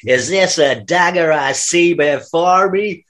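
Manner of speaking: slow, drawn-out recital; slow hammy stage verse; mock Shakespeare. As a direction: declaim it slowly like a comic Shakespeare. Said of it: "it won't be Shakespeare".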